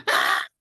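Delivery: a short mock scream; a sudden, half-hearted yell; retold scream. Blurting at God who keeps following her, a mild mock scream. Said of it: "I just screamed".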